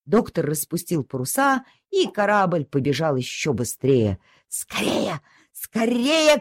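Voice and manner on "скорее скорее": dog crying. Acted. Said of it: "кричала собака".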